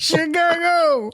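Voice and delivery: hammed-up Chicago accent saying "Chicago". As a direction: stretch "Chicago" slow and high like a Chicago local. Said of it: "You chose Chicago".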